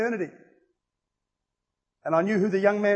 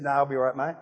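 lower, badly faked English accent; attempted Pommy accent; 4 semitones lower than usual. Young man turning down the preacher, mock English accent. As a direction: have a rough go at an English accent. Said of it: "in the Pommy accent".

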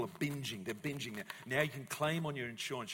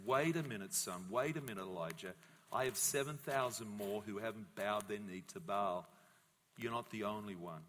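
gentle God; 4 semitones lower than usual. Acted. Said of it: "but God says".

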